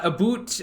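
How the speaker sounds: "boot" for about, stereotypical Canadian; hammed-up Canadian vowel on "boot"; Canadian accent. Shown as a demonstration. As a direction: put on a joke Canadian "a boot". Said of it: "Give us that Canadian accent".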